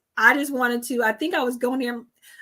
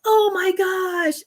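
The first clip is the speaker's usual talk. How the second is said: imitating dismay; 9 semitones higher, much slower than usual. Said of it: "he goes".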